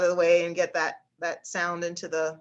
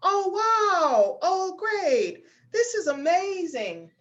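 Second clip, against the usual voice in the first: much higher, excited head voice; head voice demo; 11 semitones higher, much slower than usual. Shown as a demonstration. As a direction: let the exclamations ring up high. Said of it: "use some of those head voice tones".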